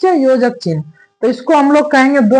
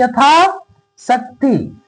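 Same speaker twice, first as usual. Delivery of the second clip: very slow repetition; 3 semitones lower, much slower than usual. Shown as a demonstration. Teacher slowly repeating the word so students catch it. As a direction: drag out यथाशक्ति very slowly. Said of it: "teacher repeating example".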